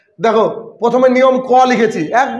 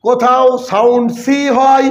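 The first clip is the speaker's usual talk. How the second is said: slow rule, "সি" drawn out; stress on "সি"; slower than usual. Shown as a demonstration. Teacher states the first half of the rule, slow and emphatic. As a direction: spell it out slowly, leaning on "সি". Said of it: "একই বাক্যে double জিনিস".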